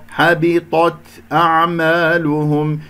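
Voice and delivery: "حبطت أعمالهم" chanted slowly with a lightly breathed ت; correct Quran recitation. Shown as a demonstration. Teacher showing students the whispered ت of "حبطت أعمالهم", measured recitation. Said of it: "التاء من كلمة حبطت تكون مهموسة".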